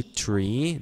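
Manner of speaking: three without the th, like "tree"; "three" with a plain t sound; mispronounced three. Retold or imitated. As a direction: say "three" as "tree", in a learner's accent. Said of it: "not three, but three".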